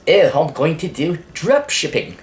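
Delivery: put-on botched New Zealand accent, sounding British; attempted New Zealand accent. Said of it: "Nah, that's more British".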